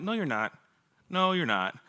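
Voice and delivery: deadpan dismissal. Retold or imitated. Cynical reply to students' dreams.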